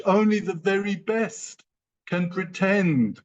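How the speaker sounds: rising passion, pleading with friends and partners; fired-up motivational plea; worked up. Real, not acted. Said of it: "Prepare yourself, I might get worked up".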